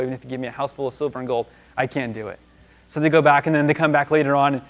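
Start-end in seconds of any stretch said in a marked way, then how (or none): 0.0-2.4 offhand, understated hinting; nudging hint. Acted. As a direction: hurry through it softly, like an elbow nudge. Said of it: "give him a little elbow".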